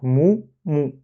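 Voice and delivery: "mou, mou" with rounded, puckered vowels; lips pushed out. Shown as a demonstration. Teacher showing the first two letters, rounded "mou, mou". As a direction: push the lips forward on each "mou". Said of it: "on doit sortir les lèvres".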